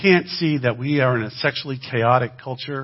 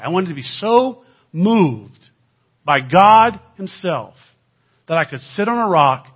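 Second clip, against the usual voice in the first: higher, louder and slow, full of yearning; fervent longing; 6 semitones higher, 11 dB louder, slower than usual. Real, not acted. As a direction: stretch out the longing to be moved by God.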